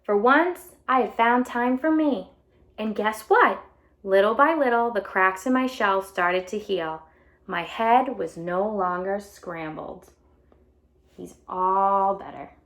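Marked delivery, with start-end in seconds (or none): 0.0-10.1 bright storybook read-aloud voice; animated picture book reading; reading to children. A narrator's reading. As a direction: read it out to a class of kids.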